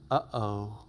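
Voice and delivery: small, low uh-oh; dismayed. Acted. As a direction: sink quietly into dread. Brothers dismayed before Joseph, acted.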